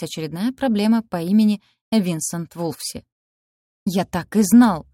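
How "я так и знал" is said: slow, loud roar. A narrator's reading. Student roaring at the rector, loud and slow. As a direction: bellow it down the street. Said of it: "взревел он на всю улицу".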